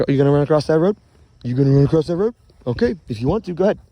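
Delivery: loud, challenging call to a dog. Real, not acted. Owner to dog heading for the road, loud warning call.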